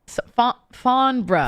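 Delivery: Farnborough in an imitated English accent, ending "bruh". Guest trying out the town's name, imitated English accent. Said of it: "why are you saying it in an English accent".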